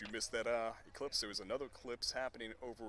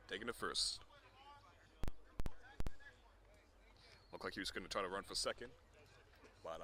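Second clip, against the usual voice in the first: golf commentator; 2 semitones higher, 6 dB quieter than usual. Acted. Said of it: "golf commentator voice".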